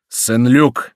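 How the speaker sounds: glad shout of recognition; joyful cry. A narrator's reading. Bussy recognises his friend's voice, joyful cry. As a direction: call a friend's name with joy. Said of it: "с невыразимой радостью крикнул".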